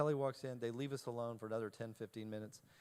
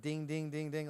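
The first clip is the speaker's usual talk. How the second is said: imitated phone chime. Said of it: "Your phone is like".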